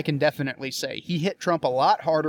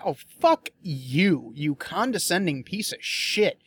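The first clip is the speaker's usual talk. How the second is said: mock retort; slower than usual. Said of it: "It's just like".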